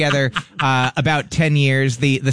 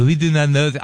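mock French accent; 3 semitones higher than usual. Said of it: "I'm doing an ac-, a perfect accent".

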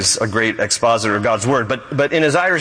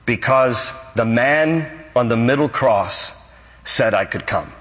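tender punchline. Acted. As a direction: let the answer land gently. Thief's simple answer, punchline.

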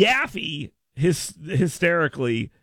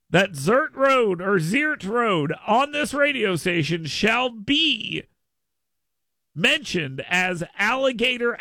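slow, lofty decree, a touch higher; mock proclamation; 5 semitones higher, slower than usual. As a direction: hand down a solemn royal decree, half joking. Mock royal proclamation on air.

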